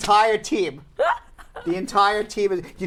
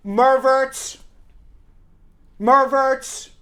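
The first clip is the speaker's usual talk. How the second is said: Long Island accent; 5 semitones higher, 3 dB louder, much slower than usual. Shown as a demonstration. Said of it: "my Long Island accent".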